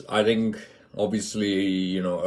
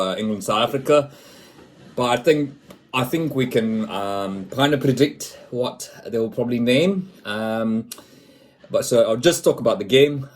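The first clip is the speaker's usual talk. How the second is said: put-on higher, louder South African accent; 4 semitones higher, 4 dB louder than usual. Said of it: "I'll stop the South African accent now".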